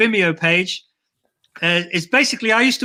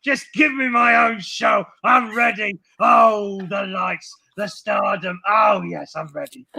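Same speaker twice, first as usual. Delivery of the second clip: diva puppet voice; 3 semitones higher than usual. Acted. Puppet demands its own show.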